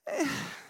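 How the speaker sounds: demonstrative "meh" sigh; apathetic sigh. Shown as a demonstration. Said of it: "it's literally this face".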